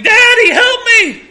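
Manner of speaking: put-on high-pitched child's scream for Dad; screaming for help. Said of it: "they start screaming".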